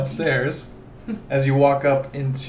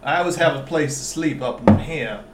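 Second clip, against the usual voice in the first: put-on southern accent. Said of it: "Stop doing the southern accent".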